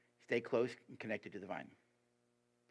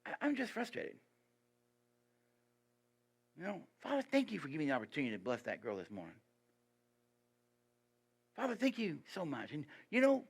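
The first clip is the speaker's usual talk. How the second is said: heartfelt prayer example; 3 semitones higher than usual. Retold or imitated. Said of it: "Why don't you say".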